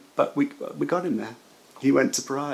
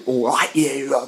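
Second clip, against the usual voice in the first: lightly voiced friend, slow and cheeky; a hint of Paul's breezy greeting, drawn out; imitating Paul; slower than usual. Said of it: "very much like that".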